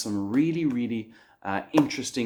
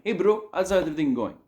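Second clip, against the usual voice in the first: higher, bright hello to a mate; mock casual greeting to a buddy, pitched up; friendly greeting; 8 semitones higher, faster than usual. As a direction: greet your friend with a lift. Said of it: "a term for a friend".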